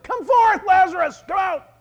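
high, forceful summoning shout; Jesus shouting. Acted. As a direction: call the dead out at full voice. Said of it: "He shouted".

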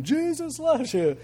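high, slow booming call, as if through a megaphone; mock booming megaphone voice. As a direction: imitate the echo of a megaphone. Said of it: "sounded like yelling it through a megaphone".

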